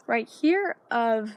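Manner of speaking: breathless, shallow breathing; puffing between words. Real, not acted. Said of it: "I'm out of breath".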